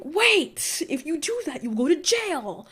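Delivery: alarmed warning. Retold or imitated. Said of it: "I'm just like".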